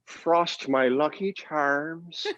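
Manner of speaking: very slow, poetic mock Irish leprechaun; languid Irish accent. Shown as a demonstration. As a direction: drawl it like a doped-up Irish leprechaun. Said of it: "languid, poetic Irish accent".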